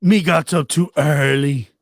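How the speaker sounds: put-on light Jamaican accent; playful Jamaican patois. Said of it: "that wasn't that bad of a Jamaican accent".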